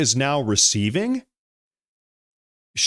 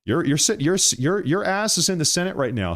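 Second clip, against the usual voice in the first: heated; 4 semitones higher than usual. Real, not acted. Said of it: "Sorry, I'm getting heated".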